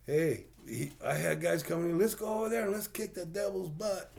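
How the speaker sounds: put-on a light Hispanic accent, rising in pitch. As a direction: retell it in his Hispanic accent. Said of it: "He's a real heavy accent of Hispanic".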